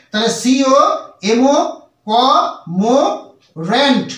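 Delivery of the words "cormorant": কমোরেন্ট drawn out very slowly, silent r; slow model pronunciation. Shown as a demonstration. Teacher slowly modelling the word for students, very slow. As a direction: stretch every syllable of কমোরেন্ট for learners. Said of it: "উচ্চারণটা আসবে কমোরেন্ট".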